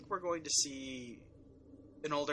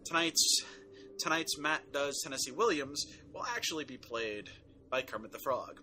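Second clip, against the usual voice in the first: mock announcer. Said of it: "ladies and gentlemen".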